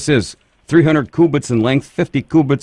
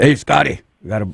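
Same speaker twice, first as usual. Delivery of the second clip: a light, hinted voice for Noah on the phone; a quick, passing nod to Noah with a slight lift; Noah's voice; 2 semitones higher, faster than usual. Retold or imitated. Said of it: "that's how Noah talks".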